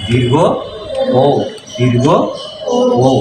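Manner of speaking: দীর্ঘ ও with the ও held longer. Shown as a demonstration. Teacher showing the class a lengthened ও. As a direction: draw out the ও in দীর্ঘ ও. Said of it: "একটু লম্বা করে টান পড়বে".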